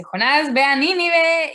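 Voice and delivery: God ordering Jonah, firm and loud; commanding call. Retold or imitated. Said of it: "y dice".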